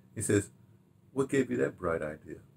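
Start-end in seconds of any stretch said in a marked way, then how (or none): 1.2-2.4 utterly deadpan, quiet delivery. Retelling what a coworker said while looking at the speaker: retelling a deadpan remark. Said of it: "in the most deadpan thing".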